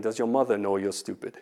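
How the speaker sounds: imitating a British accent lightly. Course guy quoting a loaded question, mock British accent. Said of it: "had a, a British accent".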